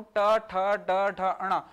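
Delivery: "ट, ठ" said loud with the tongue curled back; retroflex demo. Shown as a demonstration. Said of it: "यहाँ पर देखो जीभ मुड़कर".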